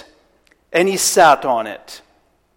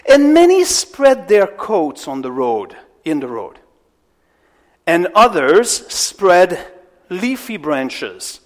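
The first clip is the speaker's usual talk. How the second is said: slow, deliberate scripture reading; slower reading. Shown as a demonstration. Preacher slowing the reading for the congregation, slow. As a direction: read each word slowly so they follow. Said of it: "nine, and ten slower".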